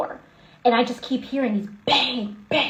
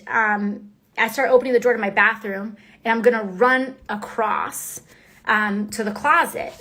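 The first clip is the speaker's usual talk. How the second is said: muffled. Real, not acted. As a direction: hand over mouth, muffled speech. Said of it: "you guys said I'm muffled".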